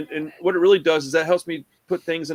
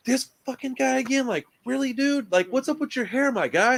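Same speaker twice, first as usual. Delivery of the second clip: higher, mocking rant at a pest; mock irritated rant; 5 semitones higher than usual. Rock star mocking the fan who keeps showing up, in a higher, irritated voice. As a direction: sneer at the fan, pitched up.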